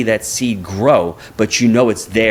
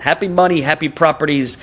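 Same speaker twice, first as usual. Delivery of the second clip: put-on Japanese accent; 4 semitones higher than usual. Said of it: "in his Japanese accent".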